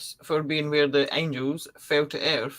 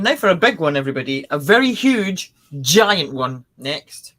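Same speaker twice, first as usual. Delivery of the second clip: dramatic build-up; 6 dB louder than usual. Acted. Host teases a big reveal.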